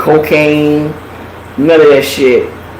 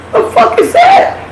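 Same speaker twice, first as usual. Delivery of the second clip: very high laughing question; laughing disbelief. Real, not acted. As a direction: crack up as you ask. Laughing at the absurdity.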